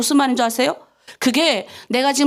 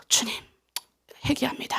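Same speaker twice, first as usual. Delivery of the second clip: breathy whispered confession to the Lord; whispered prayer; 9 dB quieter than usual. Shown as a demonstration. Pastor showing the congregation how to repent, whispered.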